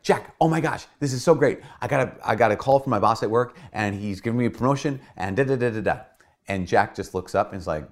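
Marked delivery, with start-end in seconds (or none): 0.0-6.0 much higher and louder, gushing; super happy. Retold or imitated. Wife bursting in to tell Jack about the promotion, excited. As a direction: spill over with excitement. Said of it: "she's, like, super happy".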